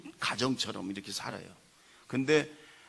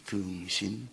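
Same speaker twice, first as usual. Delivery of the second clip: mock angry dismissal, louder on the last words; retold angry outburst; 8 dB louder, slower than usual. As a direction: act out a fed-up insult, drawn out. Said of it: "화가 나가지고 그런데".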